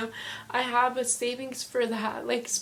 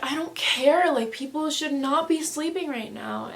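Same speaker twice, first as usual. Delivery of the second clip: high, loud defiant retort; mock-indignant yell, easing off toward the end; retold yelling; 5 semitones higher, 4 dB louder than usual. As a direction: snap back in a raised, higher voice. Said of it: "yelling, and she's just like".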